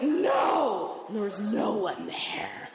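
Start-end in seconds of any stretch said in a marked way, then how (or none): 0.0-1.0 high mock-horrified cry; horrified shout. Woman refusing the man grabbing her foot, horrified shout. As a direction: shout it high in comic dread.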